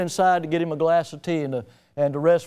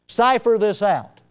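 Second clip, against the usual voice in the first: grandmother's saying; 3 semitones higher than usual. Retold or imitated. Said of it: "she would say".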